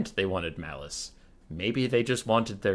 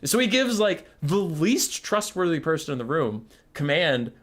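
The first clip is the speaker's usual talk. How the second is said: exasperated rant; 6 semitones higher than usual. Real, not acted.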